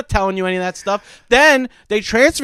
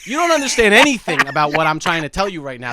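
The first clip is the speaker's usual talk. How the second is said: frustrated outburst; 6 semitones higher than usual. Retold or imitated.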